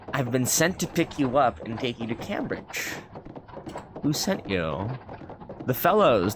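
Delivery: measured storybook reading voice; lightly performed narration; story narration. A narrator's reading. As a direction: read it like an old travel novel. Reads the game's story text.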